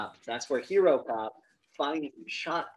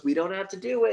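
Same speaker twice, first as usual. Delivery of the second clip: higher, louder pleading; mock urgent plea; 7 semitones higher, 6 dB louder, faster than usual. Cop tries to avert the shootout, raised mock plea. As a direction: imitate a cop begging him to stop.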